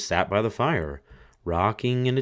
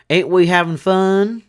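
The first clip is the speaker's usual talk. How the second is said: higher, much louder gleeful skull; head bone crying; 11 semitones higher, 10 dB louder than usual. A narrator's reading. Dancing skull crowing at the fiddler, loud. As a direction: laugh it out like a grinning skull.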